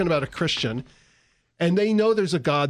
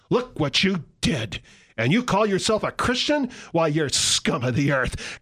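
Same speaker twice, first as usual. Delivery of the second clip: harsh accusing Satan. Acted. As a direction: look down on them and shame them. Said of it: "Satan will be the harsh voice".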